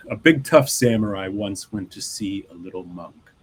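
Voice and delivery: reading a Zen fable aloud, unhurried; measured storyteller read; story narration. Acted. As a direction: tell the tale to listeners, evenly paced.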